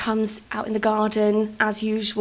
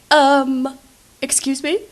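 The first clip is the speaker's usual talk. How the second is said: shocked woman; 4 semitones higher, 6 dB louder, slower than usual. Retold or imitated. Shocked woman answers brother.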